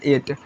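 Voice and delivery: एट said as "et", gh left silent. Shown as a demonstration. Teacher modelling एट for students, gh silent. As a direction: say एट cleanly, no gh sound. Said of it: "और इस जीएच का नहीं होगा".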